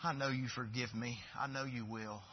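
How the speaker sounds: David humbly asking God for renewal; softly voiced David praying. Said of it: "I'm paraphrasing here".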